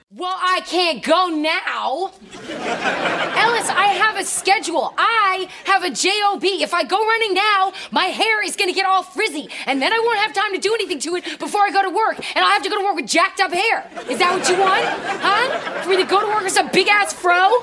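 nasally, very high-pitched ranting voice. Retelling a character's complaint about her schedule: imitating high-pitched nasal voice. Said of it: "she makes her voice very high-pitched and nasally".

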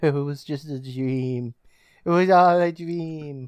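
mock words bubbling with laughter, loud and slow. Retelling how Jill wakes up and talks to her parents: imitating laughing while talking. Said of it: "Jill starts laughing and saying".

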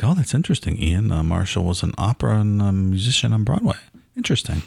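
put-on public radio announcer delivery. Co-host joking about how they sounded on an old show, NPR voice. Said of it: "did we use our NPR voices".

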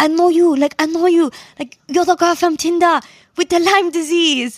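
put-on French accent. Retelling what a stranger said at the car window: imitating a french accent. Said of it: "and he's, like, French".

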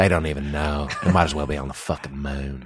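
put-on very low, quiet, slight Southern accent. Acting out what you think while listening to it: a little Southern, a little Batman. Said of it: "a little Southern, it's a little Batman".

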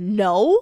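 sharp, loud, sassy "no".

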